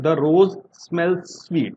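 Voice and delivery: "The rose smells sweet" drawn out word by word; very slow dictation. Shown as a demonstration. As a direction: dictate it slowly to the class. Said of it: "next देखें".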